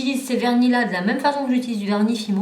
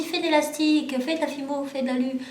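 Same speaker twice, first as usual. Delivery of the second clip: higher-pitched mimicking of viewers' demands; lightly mimicked, higher-pitched requests; imitated viewer requests; 5 semitones higher than usual. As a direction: list requests as pestering fans would. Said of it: "Alors on me dit".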